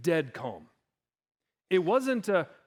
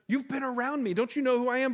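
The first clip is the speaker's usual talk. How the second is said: challenging Jesus; 6 semitones higher, faster than usual. Acted. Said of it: "That's what Jesus says".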